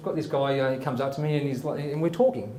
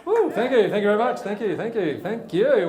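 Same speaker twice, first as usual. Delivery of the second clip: excited greeting; 6 semitones higher, 3 dB louder than usual. Real, not acted. Host greets cheering audience.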